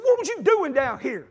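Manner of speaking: high, slow retold scolding; exasperated questioning.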